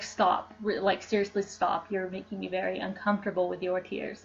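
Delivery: half-hearted imitation of a put-out onlooker; mock annoyed stranger. Imagined stranger scolding a crier, mild mock annoyance. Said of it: "someone who's like".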